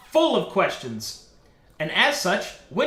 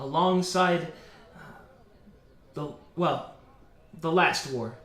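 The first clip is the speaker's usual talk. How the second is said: lightly voiced reminiscing bard; 2 semitones lower than usual. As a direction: recount your war years with hesitant pauses. Game master voices bard telling her past.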